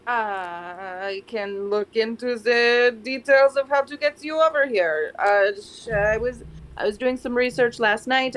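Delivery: lightly put-on French accent; hesitant French-accented character voice. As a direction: improvise haltingly with a French accent. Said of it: "get a French accent".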